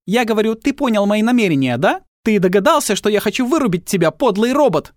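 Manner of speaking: put-on high, loud threatening girl; menacing Tilly. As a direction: advance on the robot, sneering.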